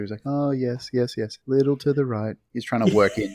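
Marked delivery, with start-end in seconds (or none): 0.2-2.4 higher mock-sympathetic coo; feigned sympathy. Imitating Larry working a request into sympathy, feigned sympathy. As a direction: fake concern while sneaking in a direction. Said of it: "sympathize or empathize with her".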